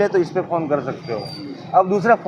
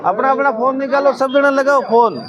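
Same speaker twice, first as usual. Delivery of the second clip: raised, higher urging to the group; rally everyone, pitched up; calling out; 4 semitones higher than usual. Real, not acted. Urging the whole group to phone. (ऊँची आवाज़ में सबसे आग्रह)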